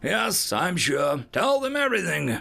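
high, impatient retort; snapping. A narrator's reading. Observer cutting off his assistant's doubts, snappish. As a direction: snap the order out. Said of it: "I snap".

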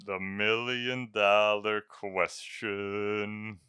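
drawn-out, slow and weighty; slow dramatic. Shown as a demonstration. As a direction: stretch it out for suspense.

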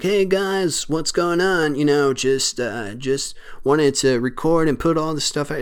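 a touch of a YouTuber saying hi to the camera; vlogger voice. Retold or imitated. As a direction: lightly imitate a streamer greeting his phone. Mocking a vlogger filming himself.

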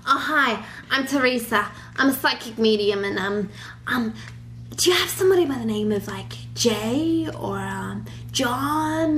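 put-on hammy Long Island psychic accent. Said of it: "worst Long Island accent I've ever done".

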